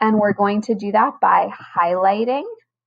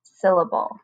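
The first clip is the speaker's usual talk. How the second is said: closed syllable, stretched slowly and clearly; slow model for class; slower than usual. Shown as a demonstration. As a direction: model it slowly so the kids can repeat. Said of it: "Can you say that with me?".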